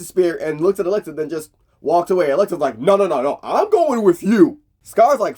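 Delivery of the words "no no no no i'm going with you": raised voice. Retold or imitated. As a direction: plant your feet and refuse to stay behind. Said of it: "who you raising your voice at".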